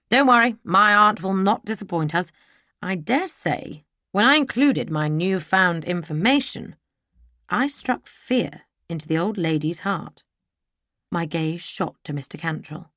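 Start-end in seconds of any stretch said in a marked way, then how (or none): 0.1-10.2 gloating gentleman villain. Acted.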